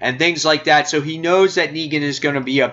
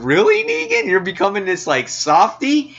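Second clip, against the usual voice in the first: mock disbelief; 6 semitones higher than usual. Reader reacting to Negan hugging the kid, mock disbelief. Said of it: "sitting there going".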